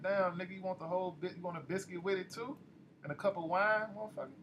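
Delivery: high, incredulous ribbing that climbs to the end; mocking disbelief. Priest mocking Duke's huge order, incredulous. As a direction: roast him for ordering too much.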